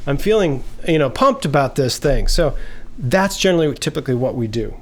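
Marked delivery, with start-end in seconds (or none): 0.1-2.3 higher, eager burst of happy words; excited. Retold or imitated. Person blurting out their joy, higher and eager. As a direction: gush about how pumped you are. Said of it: "We just sort of say".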